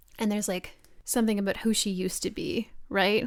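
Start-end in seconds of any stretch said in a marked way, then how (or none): none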